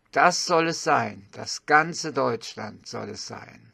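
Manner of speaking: declaimed verse with emphatic stresses and measured pauses; poem recitation. Acted. Reciting an old patriotic poem to viewers, declamatory. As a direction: declaim it solemnly, line by line.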